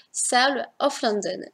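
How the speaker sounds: a slow, modest stab at a British accent; English accent attempt. Shown as a demonstration. Booktuber reading the English title aloud, a mild British accent. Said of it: "j'ai pas un accent hyper british".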